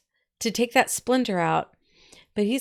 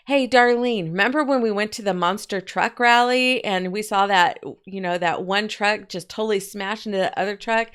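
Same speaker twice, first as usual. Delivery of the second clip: put-on loud, eager call to distract the kid; excited mom; 2 semitones higher, 4 dB louder than usual. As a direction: grab her attention with a bright story. Mother excitedly distracting the daughter.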